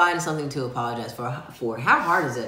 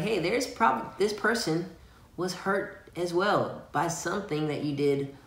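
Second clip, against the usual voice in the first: higher, soft voice of conscience; small inner voice; 4 semitones higher, 3 dB quieter than usual. Acted. Partner voicing God's quiet nudge, higher and gentle. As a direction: gently play the little voice in the head. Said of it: "But the more the whisper".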